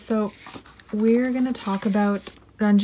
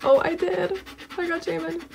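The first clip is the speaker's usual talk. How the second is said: excited reveal; 8 semitones higher than usual. Real, not acted. Reveals the scratch card member.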